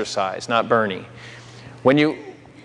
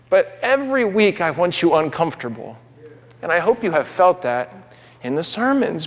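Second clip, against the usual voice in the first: emotional; 5 semitones higher than usual. Real, not acted. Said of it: "I'm gonna get emotional".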